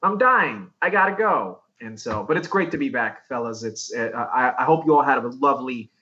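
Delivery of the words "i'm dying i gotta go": higher-pitched retold plea; mock distress. Guest retells quitting over a kidney stone, high mock distress. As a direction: act out bailing in exaggerated pain.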